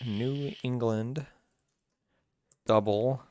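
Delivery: drawn-out words with long gaps; slow dictation to self. Real, not acted. Co-host updating his beer list, slow self-dictation. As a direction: say it slowly while noting it down.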